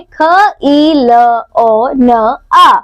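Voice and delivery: खिलौना broken into separate sounds ख, ई, ल, ओ, न, आ; sounding out. Shown as a demonstration. Teacher shows children the sounds in खिलौना, sounding out ख, ई, ल, ओ, न, आ. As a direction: say ख, ई, ल, ओ, न, आ one sound at a time. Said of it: "जैसे खिलौना शब्द में आई ध्वनियां हैं".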